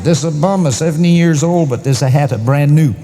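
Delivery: put-on high, emphatic Italian accent; Italian lady. Italian lady answering Luigi back, high Italian accent. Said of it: "this Italian lady".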